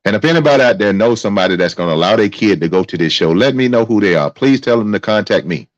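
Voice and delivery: angry outburst. Real, not acted. Angry rant at parents.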